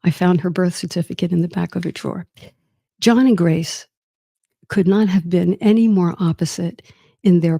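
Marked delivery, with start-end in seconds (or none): 0.0-2.2 rattled off fast as a reminder; quick recap. Shown as a demonstration. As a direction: run through it quickly, replaying it. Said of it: "try to follow these breadcrumbs".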